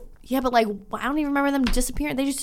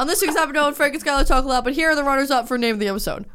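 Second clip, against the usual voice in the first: lightly put-on host intro voice; mock show announcer; 3 semitones higher, faster than usual. Mock podcast episode intro.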